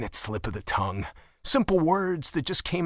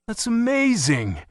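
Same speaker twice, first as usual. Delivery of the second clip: warm; 10 semitones higher, 4 dB louder than usual. A narrator's reading. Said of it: "he said warmly".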